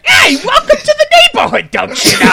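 sing-song Minnesota neighbor welcoming you, exaggerated; Minnesota accent. Shown as a demonstration. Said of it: "did that voice there".

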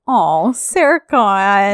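slow, drawn-out aw; cooing. Real, not acted. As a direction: coo it fondly, slowly. Cooing at character's jealousy.

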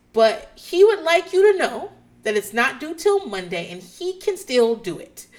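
deliberate mimicked teacher relay; talking around someone. Teacher reassuring the student through the parent, pointed retold delivery. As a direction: announce it pointedly for the listening child. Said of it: "they're relaying information to someone else".

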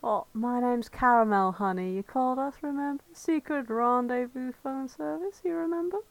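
put-on call girl Caramel. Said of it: "I can be Caramel".

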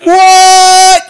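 high, loud incredulous what; baffled what. Retold or imitated. Hearing her roar, a high loud baffled what. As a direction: squawk it in disbelief. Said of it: "And I'm like".

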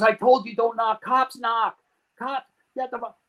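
high-pitched imitation of an exasperated man; retold angry scolding. Dealer smacks his acquaintance for knocking, exasperated telling-off. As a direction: scold him, pitched well up.

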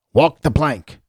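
a playful half-hearted pirate call. Pretend. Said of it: "I've never talked like a pirate before until just now".

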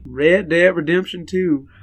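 slow Western drawl; cowboy voice. Acted. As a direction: say it like an old cowboy. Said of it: "You did cowboy voice".

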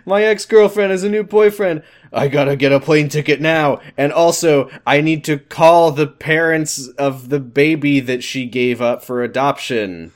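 put-on high, loud jealous boyfriend voice; hammed-up whiny ex-boyfriend; mock Ethan voice. Voicing Ethan mockingly.

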